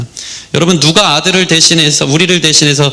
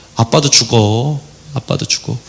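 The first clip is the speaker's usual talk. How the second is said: slow, soft, heartfelt pleading tone. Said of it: "진심으로 그때 한 말이 있어요".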